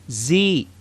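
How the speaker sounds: a clear buzzing Z as in "Z"; teaching Z sound. Shown as a demonstration. Teacher models the Arabic Z for students, buzzing clearly. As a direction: model the Z slowly for learners. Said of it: "Say it with me".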